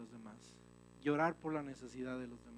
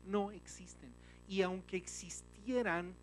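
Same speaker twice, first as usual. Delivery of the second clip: ordinary talk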